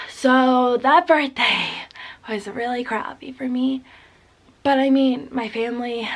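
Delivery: tearful, voice breaking; holding back tears through the words; crying voice. Real, not acted. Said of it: "I sound really annoying when I'm, like, in this, like, crying voice".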